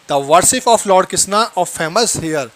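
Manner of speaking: slow, careful full read; slow teacher's dictation. Shown as a demonstration. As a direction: read it slowly so students can follow. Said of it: "teacher rereads full sentence".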